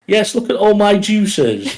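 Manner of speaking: high, lightly voiced mock gush; high-pitched teasing impression of the friend; mock Scottish friend. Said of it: "she's like".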